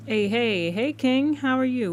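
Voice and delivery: high, loud cheerful hello to a chat friend; light up and call out a welcome; excited greeting. Real, not acted.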